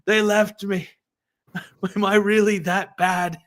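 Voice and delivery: overly dramatic pretend crying; mock crying. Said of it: "pretending to cry and be like".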